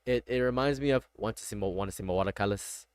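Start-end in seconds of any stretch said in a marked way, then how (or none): 1.2-2.9 put-on a light, quiet take on Old Greg's accent; a soft, coaxing nod to the Mighty Boosh creep; Old Greg impression. Reminded of a TV character, he drops into a quiet, coaxing Old Greg voice. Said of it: "It reminds me of Old Greg".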